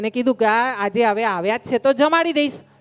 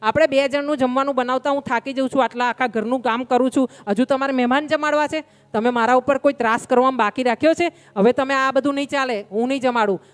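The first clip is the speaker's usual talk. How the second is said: wife scolding; 3 semitones higher than usual. Retold or imitated. Wife scolds husband over guest.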